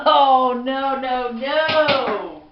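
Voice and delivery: loud high oh no no no; shocked yelp of realization; alarmed outcry. Real, not acted. Tasted straight peppermint extract.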